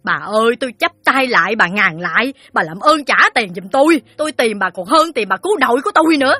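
very high, loud wailing demand; near-shouting. Acted. Moneylender lunging at her debtor, almost shouting. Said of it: "chồm tới mụ như la lên".

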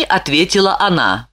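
ordinary delivery

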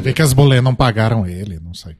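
talking with a mouthful; words around a bite of food; chewing while talking. Real, not acted. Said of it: "Isso que dá, ficar comendo e falando".

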